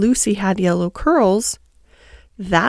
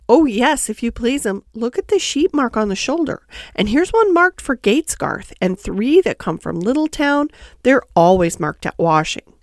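eager, obliging Tiggywinkle; 2 semitones higher than usual. Acted. Tiggywinkle shows Lucy the sheep marks, eager washerwoman. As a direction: point things out proudly and helpfully.

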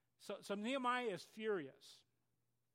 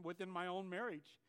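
ordinary talk

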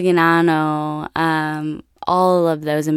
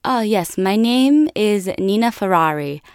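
lightly voiced little girl, higher pitch; 4 semitones higher than usual. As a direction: imitate a proud young child, pitched up. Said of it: "And she goes".

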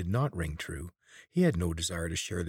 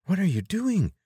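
Teek's voice; 14 semitones higher, 7 dB louder than usual. A narrator's reading. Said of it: "Teek's whisper".

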